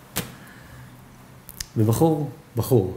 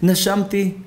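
much higher, slow, lamenting plea; tearful old man; 8 semitones higher than usual. Acted. Old man weeping to the doctor about his years of breath, high and slow. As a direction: cry out the years of free breath.

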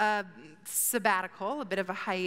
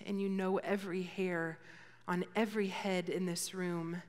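prayer. Real, not acted. Speaker opening a talk by praying for the room, earnest prayer. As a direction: pray it sincerely, settling into a hushed close.

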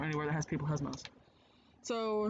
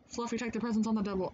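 character voice; 6 semitones higher than usual. Acted. Reading game character's order.

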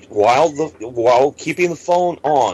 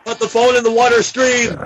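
panicked shouting; 8 semitones higher than usual. Acted. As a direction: yell it like the lab is failing. Faked emergency.

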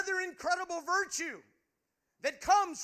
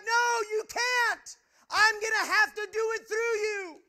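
God's voice shouting; 5 semitones higher, 8 dB louder than usual. Retold or imitated. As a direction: boom God's answer back at him. God's reply retold, shouted.

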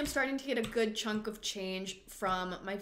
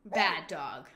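scolding; 5 semitones lower than usual. Pretend. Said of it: "I'm gonna lecture him".

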